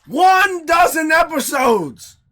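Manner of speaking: big, slow, high hype call; excited shout. Real, not acted. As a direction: announce it like a milestone. Podcast host hyping episode count.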